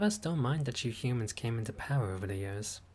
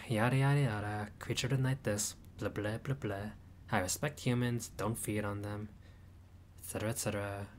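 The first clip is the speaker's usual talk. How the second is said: bored rattling off; 3 dB quieter than usual. Acted. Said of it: "The mood's already gone".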